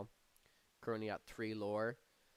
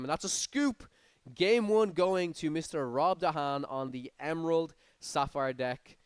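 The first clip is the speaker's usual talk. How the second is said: high, loud burst of commentary; excited win call; 5 semitones higher, 8 dB louder than usual. Real, not acted. Commentator announcing who takes game one, excited.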